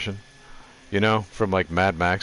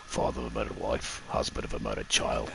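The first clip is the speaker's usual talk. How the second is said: low, quiet Gladiator-style growl; a lightly done gruff Roman general, low and hushed; Russell Crowe impression; 13 semitones lower, 10 dB quieter than usual. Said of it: "This is my Russell Crowe impression".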